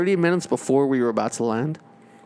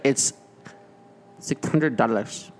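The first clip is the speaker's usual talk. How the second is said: bad Filipino accent; slower than usual. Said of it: "All right, that was terrible".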